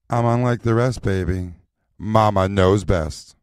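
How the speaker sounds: sultry sassy Mama persona; sexy voice. Shown as a demonstration. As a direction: purr it out like a diva mama. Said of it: "You had it in the sexy voice".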